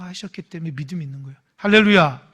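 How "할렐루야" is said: loud falling shout of 할렐루야; fervent preacher's 할렐루야; hallelujah call. Real, not acted. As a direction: call it to the church. Preacher calls out.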